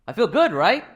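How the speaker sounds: real joyful lift; delighted. Real, not acted. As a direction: let the delight spill out. Father delighted by son's offer.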